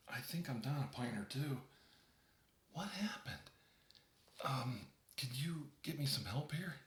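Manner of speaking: fading, breathless panic; panicked and faint. Acted. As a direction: gasp for help as you fade. Calling for wife, weakening.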